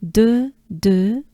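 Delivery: de held with lips pushed forward; two separate model takes of de, mouth forward; forward French E. Shown as a demonstration. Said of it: "your mouth forward".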